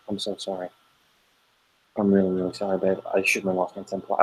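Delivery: soft, remorseful parent voice; gentle apology. Retold or imitated. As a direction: quietly make up with a child. Parent apologizing to child, retold.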